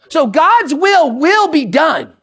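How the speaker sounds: GOD'S WILL WILL BE DONE stretched slow and punched; emphatic slow declaration. Shown as a demonstration. Preacher concluding that God's will WILL BE DONE, slow and emphatic. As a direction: drive home WILL BE DONE, slowly and firmly. Motto restated with force.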